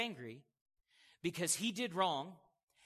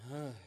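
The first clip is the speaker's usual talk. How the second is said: imitated downcast groan; mock sigh of a fallen countenance; dejected sigh; 4 semitones lower, 3 dB quieter than usual. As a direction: let out a deflated "ugh". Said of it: "Their countenance goes".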